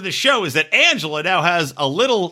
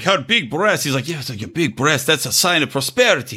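put-on Russian accent; 3 semitones lower than usual. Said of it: "I don't know why I'm talking like I'm a Russian".

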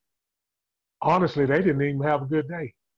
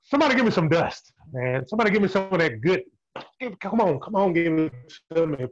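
hyped call-out. Real, not acted. Host hyping up everyone on the call, excited call-out. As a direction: rev up the crowd, calling for more.

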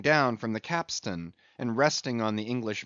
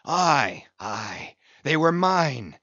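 louder, slow exulting shout of my irons; exultant cry; 2 semitones higher, 6 dB louder, much slower than usual. Acted. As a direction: crow over his own harpoons. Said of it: "cried Ahab exultingly".

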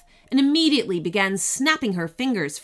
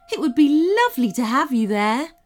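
gentle unicorn voice; 6 semitones higher, 5 dB louder, faster than usual. A narrator's reading. Unicorn speaking.

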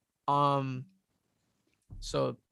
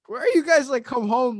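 put-on panicked kid; 9 semitones higher, 6 dB louder than usual. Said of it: "And I'm like".

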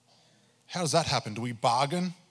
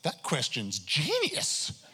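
sarcastic; 3 semitones higher, much slower than usual. Retold or imitated. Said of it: "I wasn't saying it with the best attitude".

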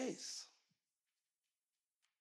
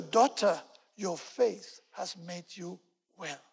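slow, softening blessing; Jesus gently reassuring the kneeling woman, tender; slower than usual. Acted. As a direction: say it gently, like comforting a child.

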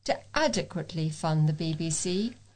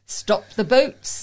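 slow, louder chant of a political slogan; mock slogan shout; 5 dB louder, slower than usual. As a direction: spell it out like a protest slogan, half-mocking. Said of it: "they scream".

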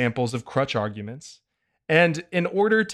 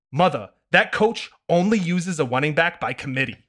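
put-on no fun kid voice; 4 semitones higher than usual. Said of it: "no fun kid voice".

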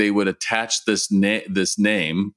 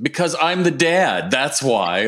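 higher-pitched opening, mock dad authority; parent laying down law; 4 semitones higher than usual. Dad ending an argument with a child, mock authority. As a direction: pull rank as a dad, lightly acted. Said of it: "as a parent".

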